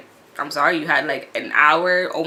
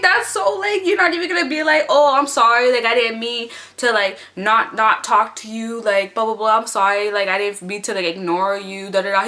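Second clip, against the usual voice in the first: telling off the guy who ignored her, high and exasperated; indignant rant; 3 semitones higher than usual. Retold or imitated. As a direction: scold him for not apologizing, pitch up. Mocking the apology she wanted.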